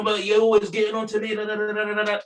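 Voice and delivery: whiny pupil mimicked up high; mocking whiny student.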